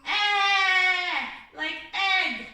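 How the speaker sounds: Eh said loud and high as a short e, as in egg; short e sound. Shown as a demonstration. Teacher correcting the child's short E sound. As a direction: punch out the short E as eh. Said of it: "What does E say?".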